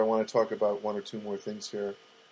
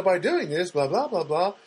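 bored script reading; 5 semitones higher than usual. Retold or imitated. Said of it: "she has to read this".

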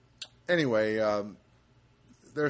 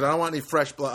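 firm, louder mock refusal; insistent refusal; 5 dB louder, faster than usual. Patient refusing blood at the class, firmly. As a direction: put your foot down, imitating her. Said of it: "She goes".

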